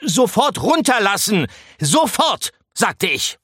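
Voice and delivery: a tiny mouse demanding obedience; indignant command. A narrator's reading. Mouse orders the rats to put him down. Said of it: "rief Pikandou entrüstet".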